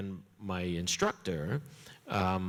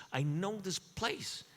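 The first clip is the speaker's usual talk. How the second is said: higher, softer, slower; hushed awed repeat; 10 semitones higher, 6 dB quieter, slower than usual. Retold or imitated. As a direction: breathe it in awe. Second take, fading softer.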